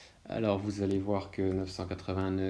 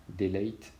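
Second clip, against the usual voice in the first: delete à l'anglaise, i long; English accent. Shown as a demonstration. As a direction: dire delete avec un accent anglais appuyé. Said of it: "avec mon superbe accent". (accent anglais sur delete)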